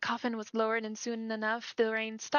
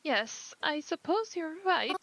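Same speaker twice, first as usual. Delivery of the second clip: higher, gentle voice of a bereaved mother; a mother startled at her daughter's funeral; grieving mother; 5 semitones higher, slower than usual. Acted. Grieving mother greets a stranger at the funeral, gently.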